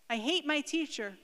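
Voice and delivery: lightly acted outburst of an upset schoolgirl; angry. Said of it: "She's so angry".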